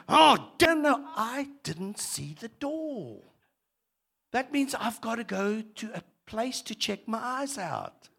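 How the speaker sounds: hammed-up stubbed toe gripe; mock annoyed self. Preacher acting his own toe-stub complaint, mildly annoyed. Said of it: "I would blame the devil and say".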